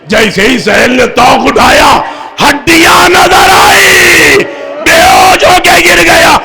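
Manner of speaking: high, loud wailing cry from the pulpit, stretched out; preaching at full force. Acted. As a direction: lift the grief into a mourning shout. Climactic wailing majlis recitation.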